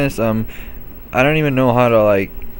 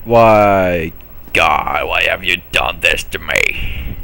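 hammed-up lament to the sky, lower; mock lament; 4 semitones lower, slower than usual. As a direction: wail at God theatrically.

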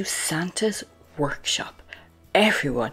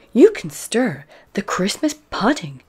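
higher, louder storybook granny; lightly voiced, lively grandmother; Granny Pig; 5 semitones higher, 8 dB louder than usual. A narrator's reading. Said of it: "Granny Pig says".

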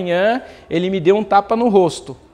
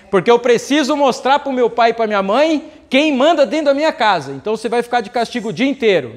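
pai com raiva; 4 semitones higher than usual. Retold or imitated. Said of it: "o inconsciente tá gritando isso".

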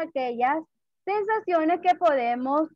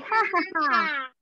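mock laugh, drawn out; happy laugh; much slower than usual. Shown as a demonstration. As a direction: laugh slowly for the kids. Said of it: "Cuando está feliz".

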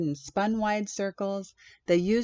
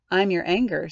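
creature voice; 7 dB louder than usual. Acted. Creature introduces itself.

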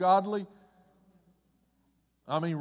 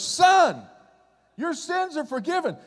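higher and louder, a proclaiming call of son; Jesus calls him son with joy; Jesus addressing him; 9 semitones higher, 4 dB louder than usual. Acted. Jesus tells the paralytic his sins are forgiven, proclaiming. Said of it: "So he looks at him and goes".

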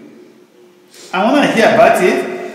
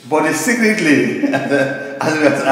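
laughing; slower than usual. Real, not acted. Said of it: "I was actually laughing".

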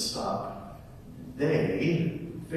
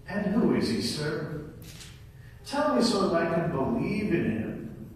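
frustrated; 3 semitones higher than usual. Acted. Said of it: "Very frustrated".

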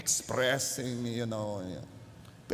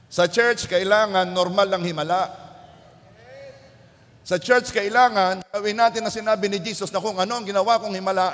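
rising louder, pushing the congregation; fervent preaching; 3 semitones higher, 4 dB louder, faster than usual. Acted. Pastor rousing the church to answer back. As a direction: build the fire and drive it home.

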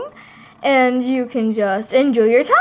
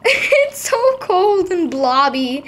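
squealing; 6 semitones higher, slower than usual. Acted. Doll squeals at cold shampoo.

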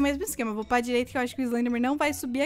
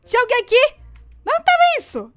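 high, loud shocked cry; real surprise at being caught; startled; 11 semitones higher, 9 dB louder than usual. Real, not acted. Player caught off guard in the game, high and loud startled.

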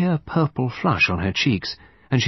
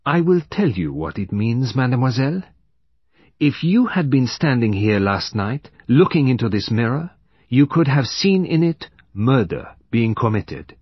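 Poirot; 3 semitones higher, 4 dB louder than usual. Acted.

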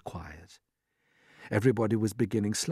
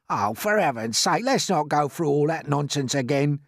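higher, grumbling voice; exasperated earthworm; 5 semitones higher, 4 dB louder than usual. A narrator's reading. Earthworm sick of the boot routine, exasperated grumble. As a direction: complain wearily and loudly.

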